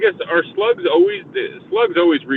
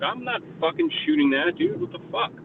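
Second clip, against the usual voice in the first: incredulous self-quote; 13 semitones higher, 6 dB quieter than usual. Retold or imitated. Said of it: "I'm like".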